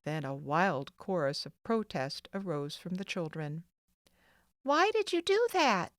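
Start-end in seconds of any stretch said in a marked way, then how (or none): 4.6-5.9 raised, indignant demand; higher and louder, protesting; a boy confronting his mother. A narrator's reading. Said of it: "demanded Theodore of his mother".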